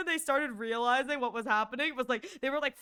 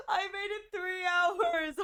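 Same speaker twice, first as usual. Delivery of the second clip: whiny lament; 5 semitones higher, slower than usual. Real, not acted. Repeated lament.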